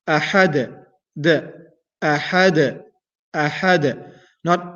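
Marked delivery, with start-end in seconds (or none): 0.1-0.8 أحد with a bounced final dal; qalqala bounce. Shown as a demonstration. Teacher repeating the qalqala for students. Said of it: "the bouncing". 2.0-4.1 أحد with a bounced final dal; qalqala bounce. Shown as a demonstration. Teacher drilling qalqala for students. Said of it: "that is the qalqala".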